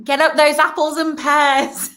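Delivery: slow put-on Cockney accent; hammed-up Cockney; Cockney impression. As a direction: lay on Guy Ritchie film Cockney, slowly. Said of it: "watch a Guy Ritchie movie".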